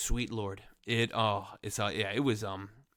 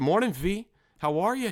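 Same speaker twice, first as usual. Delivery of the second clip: whisper; 9 semitones higher, 7 dB louder than usual. Pretend. He greets his hairline.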